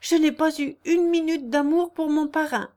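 loud, high, emphatic denial; sincere outcry. A narrator's reading. Jeanne swears to Léon she never loved her godfather, sincere outcry. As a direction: protest your innocence with full conviction. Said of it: "s'écria Jeanne avec l'accent de la vérité".

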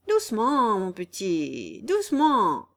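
slow down the hothead, a little condescendingly; mock soothing. Raguet soothes the furious Guillaume.

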